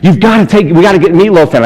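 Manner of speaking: mildly excited retelling. Retold or imitated. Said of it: "absolutely freaking out".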